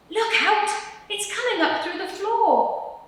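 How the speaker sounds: high, loud warning cry; alarmed shout. Acted. Animals warn each other, high alarmed cry.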